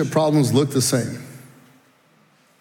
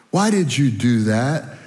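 slow, pointed question; slow questioning quote; slower than usual. Retold or imitated. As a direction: ask it slowly like a disappointed parent. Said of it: "people ask us this question".

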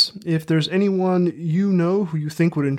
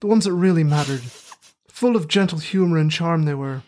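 put-on terrible working-class Midlands accent; rustic Midlands accent. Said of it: "in my terrible working-class rustic Midlands accent".

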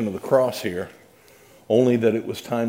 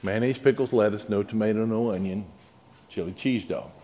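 slow careful repeat. Retold or imitated. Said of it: "clears throat, repeats order".

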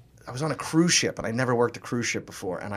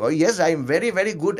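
silly puppet voices; 4 semitones higher than usual. Retold or imitated. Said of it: "all these different voices and stuff".

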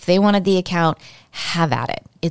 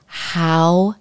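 mama bear indignation; much slower than usual. Retold or imitated. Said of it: "So this is Mama Bear".

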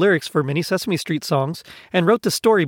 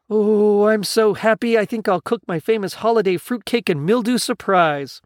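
overjoyed; 5 semitones higher than usual. Acted. Gonzo delighted to be offered friendship, overjoyed. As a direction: burst out happily, pitch lifted.

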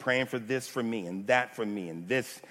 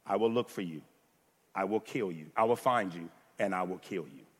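Liam Neeson; 2 semitones lower than usual. Acted. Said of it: "I can't do the Irish accent at all".

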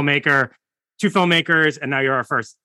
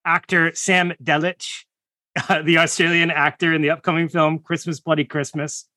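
raised, higher-pitched podcast welcome; nervous near-yell; 4 semitones higher than usual. Real, not acted. Host introducing the guest, nervous about his name, nearly yelling. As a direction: project the introduction with nervous energy. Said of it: "I feel like I'm yelling".

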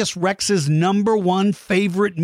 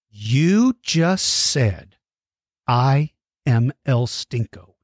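stern mock warning; 4 semitones lower, slower than usual. Stern threatening speech to child.

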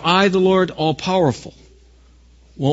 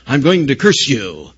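mock huffy; 2 semitones lower than usual. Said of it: "gets all huffy and says".

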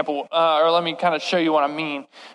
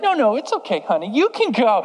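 mom's voice; 3 semitones higher than usual. Retold or imitated. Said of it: "My mom would be like".

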